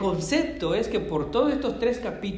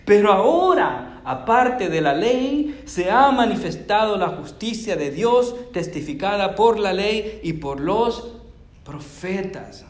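loud, higher, slow proclaiming of the verse; emphatic scripture reading; 4 semitones higher, 4 dB louder than usual. Acted. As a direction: preach the verse, leaning on "ahora".

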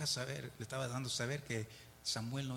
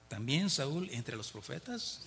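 slow, drawn-out mock jeer; mocking taunt; much slower than usual. Villagers mocking Saul among the prophets, slow taunt. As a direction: sneer it like gossip about Saul. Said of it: "como burlándose de él".

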